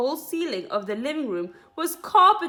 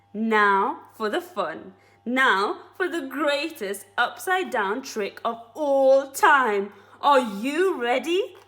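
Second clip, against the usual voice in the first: slow grand announcement; 3 semitones higher, 5 dB louder, slower than usual. Acted. Mugglewump's grand trick announcement.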